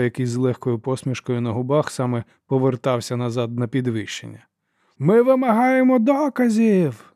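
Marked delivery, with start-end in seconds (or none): 5.0-7.1 high, slow, loud yell on вимагаємо. A narrator's reading. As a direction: wail the demand. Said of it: "заволав лорд Хюген".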